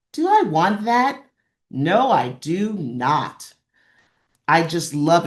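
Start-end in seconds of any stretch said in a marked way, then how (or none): 0.1-3.5 slow, emphatic no, I do not; slow, decided storybook no; firm refusal. Acted. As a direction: lay down the refusal word by word.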